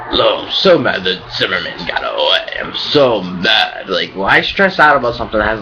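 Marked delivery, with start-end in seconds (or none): 0.1-3.9 mocking a whiny Zimmerman complainer, the last "I'm so mad" slow. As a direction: sneer at people fretting online. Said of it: "and be like".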